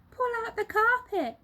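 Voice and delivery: high, loud bossy command; shout. Acted. Mugglewump ordering the carpet up, high loud shout. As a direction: bark the order. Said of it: "shouted Mugglewump".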